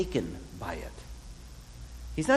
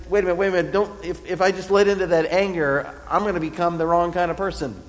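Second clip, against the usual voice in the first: sudden louder wait a minute, catching himself; startled self-check; 4 semitones higher, 5 dB louder, faster than usual. Retold or imitated. David halting his own slide into anger, louder and startled. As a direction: stop yourself short, alarmed at your own anger.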